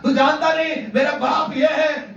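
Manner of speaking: high-pitched imitated bragging; mock boasting. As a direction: mimic a loud, self-important threat. Mimicking a boasting demon. (शेखी की ऊंची आवाज़ में नकल)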